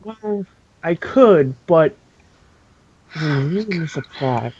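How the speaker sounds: evil voice. Acted. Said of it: "I knew you were gonna say that".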